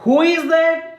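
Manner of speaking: put-on a confused old mother peering at a stranger. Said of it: "Amma said again".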